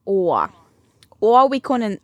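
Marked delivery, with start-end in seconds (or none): 1.2-2.0 put-on New Jersey accent in German. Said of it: "den New Jersey Accent mit German gesprochen".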